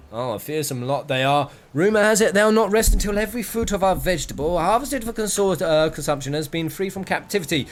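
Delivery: a touch of pompous storytelling, pitch lifting; lightly voiced blustering merchant. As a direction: lightly play the merchant reassuring a lady. Merchant recounts the raids.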